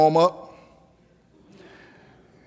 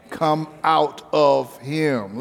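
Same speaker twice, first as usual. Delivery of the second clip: a drawn-out Come out of him; power and authority; much slower than usual. Retold or imitated. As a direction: lay each word down with authority. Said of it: "you speak with power and authority".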